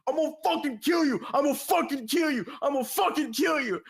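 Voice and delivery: imitating the furious friend; retold threat. Friend pinned to the wall, threatening the teller, mock angry.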